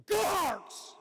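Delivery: high, loud cheer of Go Hearts; big high-pitched chant of the slogan; Go Hearts shout. Shown as a demonstration. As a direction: shout it out as a rallying cry. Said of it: "you've got to go up to them and go".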